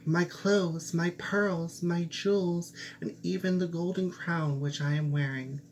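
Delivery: high, eager listing of treasures; eager princess. Acted. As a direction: offer everything, pitched high.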